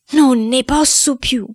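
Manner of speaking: slow, high wail of despair; drawn-out, high-pitched desperate cry; mounting despair. Acted. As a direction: wail it slowly, at the end of endurance. Despairing boy, stronger repeat.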